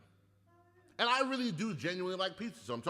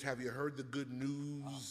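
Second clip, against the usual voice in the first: door-to-door preacher; 2 semitones lower, 5 dB quieter, slower than usual. Retold or imitated. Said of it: "knocking on doors".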